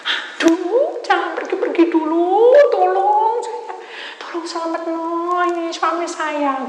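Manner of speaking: high, loud, slow desperate pleading; pleading wife. Retold or imitated. Desperate wife begging the preacher to save her husband. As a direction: beg high and slow for help.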